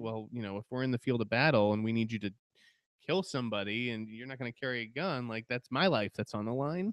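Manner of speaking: plain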